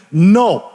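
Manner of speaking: a firm, punched no; emphatic no. Retold or imitated. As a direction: slam the no down. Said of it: "Like, emphatically".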